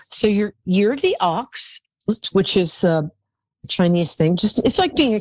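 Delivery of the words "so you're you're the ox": slow whisper. Real, not acted. Reveals caller's Chinese sign.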